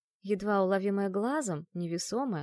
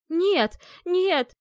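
high, loud panicked cry; frightened exclamation; 9 semitones higher, 9 dB louder than usual. A narrator's reading. Dead woman panicking at the exorcist, terrified shriek. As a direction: shriek it in terror. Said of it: "воскликнула та".

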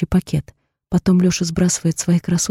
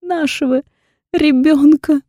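higher, drawn out, whimpering; whimpering drawl; 8 semitones higher, 4 dB louder, slower than usual. A narrator's reading. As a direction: she wails it out to him. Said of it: "тяну, продолжая подвывать". (подвывая, протяжно)

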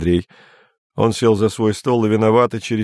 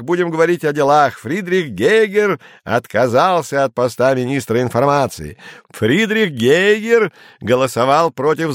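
hissing and spluttering; 6 semitones higher than usual. A narrator's reading. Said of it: "шипя и брызгаясь".

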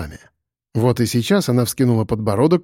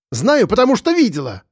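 higher, shrill-pitched cry of proof; shrieking; 10 semitones higher than usual. A narrator's reading. Lyusya shrieks at the room that she saw it. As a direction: squeal it out, desperate to be believed. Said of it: "взвизгнула Люся".

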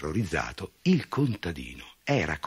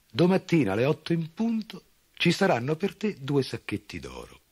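farmer's voice; 11 semitones higher than usual. A narrator's reading.

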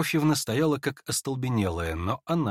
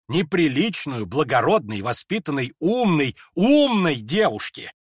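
high, loud indignant tirade; heated rant; 6 semitones higher, 5 dB louder than usual. Acted. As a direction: pile up the insults breathlessly. Lizaveta rants hastily.

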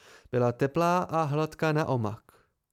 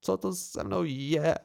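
slow, softer angry murmur; quiet and angry; 2 semitones higher than usual. A narrator's reading. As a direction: Dena angry at herself under her breath. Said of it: "vyřkla tiše a hněvivě".

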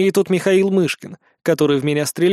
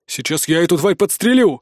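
exhaled threat. A narrator's reading. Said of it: "выдохнул тот".

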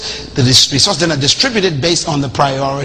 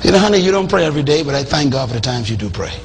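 encouraging wife; 3 semitones lower, faster than usual. Retold or imitated. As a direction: praise him gently for the times he prays. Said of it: "Instead of saying".

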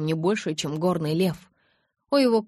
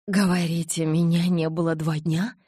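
shocked, breathed out; stunned gasp; 4 dB louder than usual. Acted. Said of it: "потрясённо выдохнула я".

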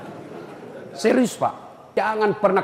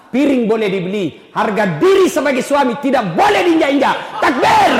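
loud, higher rallying cry; preacher firing up the congregation with a shout; rousing shout; 5 semitones higher, 5 dB louder than usual. Real, not acted. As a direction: call the crowd to shout back. Preacher calling out to crowd.

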